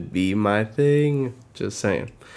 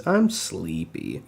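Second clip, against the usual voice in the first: sleepy voice; 4 semitones lower, slower than usual. Acted. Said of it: "York says".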